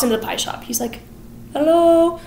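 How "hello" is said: hammed-up hello. Sweeney greets pie shop.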